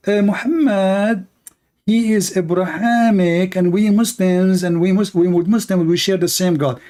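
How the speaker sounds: lightly voiced evasive priest stumbling over his words; mock fake priest. Fake priest asked about Muhammad, answering in a hesitant mock voice. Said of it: "a fake man of God".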